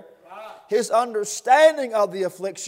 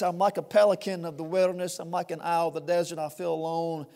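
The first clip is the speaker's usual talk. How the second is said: hushed lament; 4 semitones lower, 6 dB quieter, faster than usual. Acted. Voicing the psalmist's lament, hushed.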